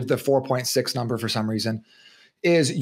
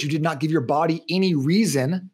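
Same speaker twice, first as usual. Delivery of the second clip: normal talking voice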